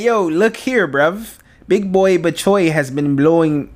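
botched British accent drifting into Jamaican; slow, wobbly mock British-Jamaican accent; British gone Jamaican. Shown as a demonstration. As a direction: aim for British, land nearer Jamaican. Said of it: "That's Jamaican".

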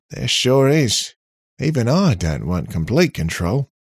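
cocky robot character. Acted. Robot teaching his new owners the commands, cocky. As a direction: explain with breezy, loud self-assurance.

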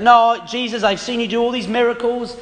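lightly acted, stumbling protest; mildly hammed-up self-assurance; insistent protest. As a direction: insist through false starts, as if overconfident. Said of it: "insisting that".

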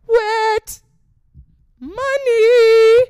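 very high, loud, stretched-out squeal; jackpot cheer. Acted. Chick spotting a black Ferrari, high gleeful shouting. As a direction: blare it out like a slot-machine win. Mimicking greedy jackpot reaction.

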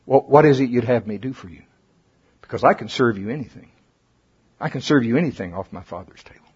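quiet voice of Jesus offering; tender offer. Retold or imitated. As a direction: offer it like a humble servant. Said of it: "I can almost see him".

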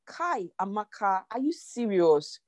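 mock guilty inner voice; self-scolding inner voice. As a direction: scold yourself in disbelief. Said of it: "you just feel like".

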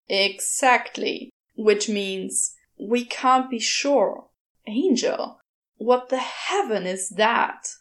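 a hint of the sardonic demon; Crowley voice. Crowley retorts.

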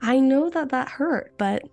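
retold gentle correction of a little one; gentle mediating aunt. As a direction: talk a child through it kindly, voice lifted.

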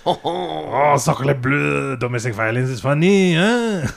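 cartoon French accent; mock French accent. French character joking about his own threat, mock French accent. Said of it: "like, in French".

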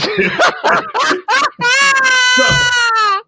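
high, loud laugh close to tears; losing it completely; howling laugh. Real, not acted. Co-host breaking down laughing at the camera angles. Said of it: "I'm laughing so hard".

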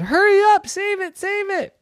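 high frantic little voice; urgent bird voice. Acted. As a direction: beg them to hurry. Bird urges.

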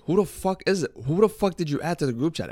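high, agitated imitation of confused friends; mock indignant demand. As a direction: retell it as a high-pitched outcry. Friends demand answers in retold quarrel.

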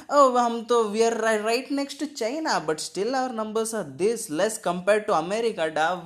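high excited boasting; mock bragging. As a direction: brag like a smug uncle. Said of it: "That's what they're thinking".

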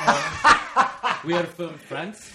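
loud, hammed-up French tourist accent; slow, silly French-accented English; mock French accent. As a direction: put on a cartoon French accent, laughing. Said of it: "it's the one accent we can do".

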